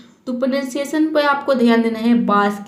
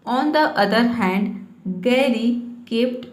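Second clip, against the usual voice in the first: slow, careful word-by-word reading; slow reading aloud; much slower than usual. Shown as a demonstration. Teacher reading an English story to students, slowly. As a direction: read it out slowly for learners. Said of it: "reads English story slowly".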